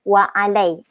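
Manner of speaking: "wa alai" with no throat ain; unemphasised ain. Shown as a demonstration. Teacher showing the weak Malay reply, "wa alai" unstressed. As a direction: say "wa alai" without pressing the ain. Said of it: "Even kalau jawab salam pun".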